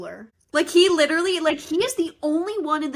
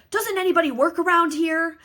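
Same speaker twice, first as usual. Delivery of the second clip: mock exasperation, pitched up and a bit louder; exasperated quote; 5 semitones higher, 4 dB louder than usual. Mitch looking around the crowded store, mock exasperated. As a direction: quote him fed up.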